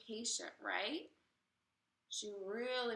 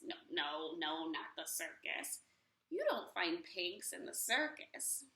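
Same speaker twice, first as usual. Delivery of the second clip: low grumble; 5 semitones lower than usual. Acted. Witch rejecting idea.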